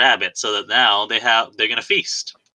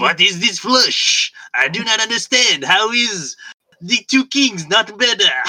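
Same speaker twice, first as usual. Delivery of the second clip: horrible put-on French accent, very high; 11 semitones higher than usual. Retelling a french soldier puzzled by a flush in cards, horrible fake french accent. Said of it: "there's my horrible French accent for the day".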